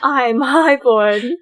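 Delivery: slow, lightly put-on British accent; a hint of haughty British; bad British accent. Host jokingly playing highborn Daenerys in British accent. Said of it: "my really bad British accent".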